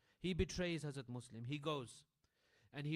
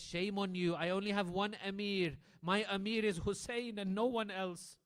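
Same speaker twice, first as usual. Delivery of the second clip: defiant rebuke; 4 semitones higher, 6 dB louder than usual. Acted. Defiant reply to governor.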